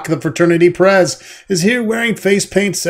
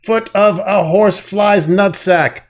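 higher, louder bossy hazing boss; pledge master voice; 6 semitones higher, 5 dB louder than usual. Acted. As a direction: bark orders like a pompous pledge master. Pledge master continues speech.

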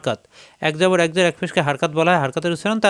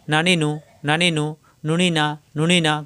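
নুনি না run together briskly; quick short vowels. Shown as a demonstration. Teacher drilling noon vowels for students, quick joined syllables. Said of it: "হরকতের উচ্চারণ তাড়াতাড়ি".

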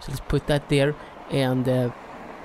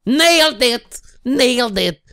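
triumphant; 3 semitones higher, 5 dB louder than usual. Real, not acted. Celebrating success.

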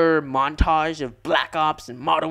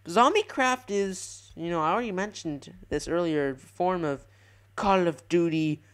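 nerd voice. Pretend. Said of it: "that's my nerd voice".

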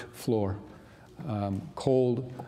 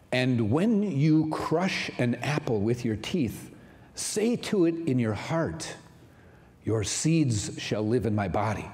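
poem reading. Acted. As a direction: recite it like a poem to savour. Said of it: "It goes like this".

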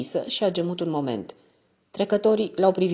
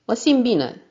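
"Mă simt bine" thrown back higher and louder; "Mă simt bine" yelled as a jeering protest; shouted mockery; 7 semitones higher, 5 dB louder, slower than usual. A narrator's reading. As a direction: shout "Mă simt bine" back at him, mocking his words. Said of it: "am strigat".

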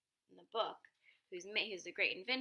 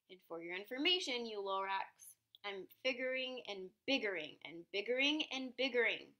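mock yell; 4 dB louder than usual. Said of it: "I yelled at the Lorax".

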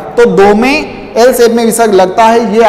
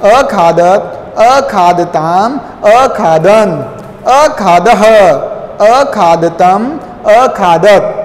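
recitation drill; much slower than usual. Shown as a demonstration. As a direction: chant the verb forms for pupils to repeat. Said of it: "एक बार फिर से उच्चारण कीजिए".

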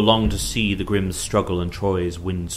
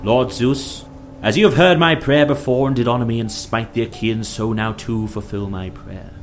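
earnest appeal to a god, a little raised; fervent prayer; 2 semitones higher, 5 dB louder than usual. A narrator's reading. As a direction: pray aloud with firm, measured emphasis. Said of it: "and as he prayed".

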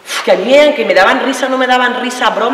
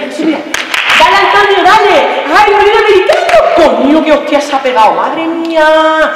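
screaming encouragement, much higher and louder; cheering yell; 7 semitones higher, 3 dB louder than usual. Retold or imitated. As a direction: yell him on from the stands. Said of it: "¿qué estás gritando?".

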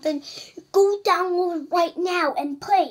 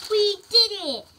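cheering; 6 semitones higher, 6 dB louder than usual. Acted. Character cheers victory.

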